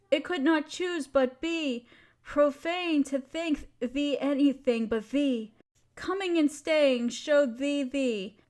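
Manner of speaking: measured, lilting reading of verse; poem recitation. Acted. Sharing a favourite poem with a partner, tender recitation. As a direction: let the lines flow with a gentle cadence. Reads Donne poem aloud.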